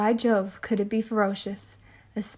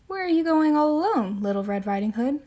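calling out; 4 semitones higher than usual. Acted. Woodman calls out in story.

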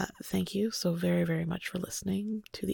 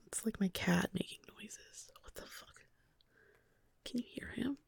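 whispering; 3 semitones higher, 9 dB quieter than usual. Real, not acted. Reacts to cat noise aside.

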